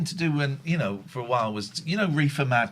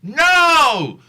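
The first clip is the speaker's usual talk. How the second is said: loud, high cartoon yelling; shouted character voice; 13 semitones higher, 11 dB louder, much slower than usual. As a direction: belt it out like a cartoon. Voicing dealer then refusal.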